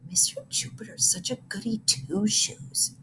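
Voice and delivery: soft, hushed aside; girl whispering to her friend. A narrator's reading. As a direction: whisper it behind the teacher's back. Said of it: "Missy whispered to Rose".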